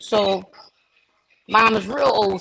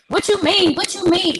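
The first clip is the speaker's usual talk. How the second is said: high mocking challenge; 6 semitones higher than usual. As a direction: imitate the girl squaring up, pitched high. Girl's high, laughing challenge.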